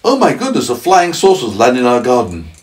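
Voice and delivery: high mock gasp of wonder, settling; pretend amazement. Parent pretending to trick child, high mock amazement. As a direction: sell a tall tale as astonishing. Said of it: "let's pretend I say".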